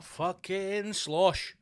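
very slow slurred drawl; drunken mumble. Retold or imitated. Comic voicing the sloshed gorilla, slowly. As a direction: slur it like a drunk. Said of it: "he's like".

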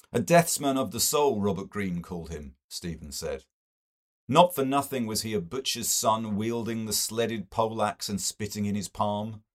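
fierce, sardonic argument; a hint of bitter eloquence; Stephen. Stephen's speech voiced.

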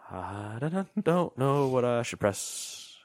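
drawn-out, torn hesitation; slow, wavering play-acted dithering; mock agonized indecision. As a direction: drag it out, unable to choose. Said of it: "and I'm like".

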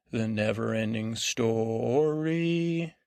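drawn out slowly like a grand title; dramatic slow repeat. Shown as a demonstration. Host repeating the show title to listeners, slow and grand.

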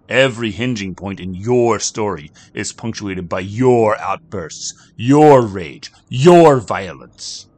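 measured and ominous, slowing down; cryptic stranger. Acted. Kino lectures Jack.

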